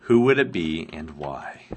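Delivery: a hushed, unvoiced musing; whispered. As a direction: whisper the question to yourself. Rereading a viewer's question.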